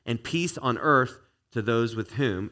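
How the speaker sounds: slow, chanted group line; demo of the line. Shown as a demonstration. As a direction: model it slowly for the crowd to copy. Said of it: "You guys are the second line".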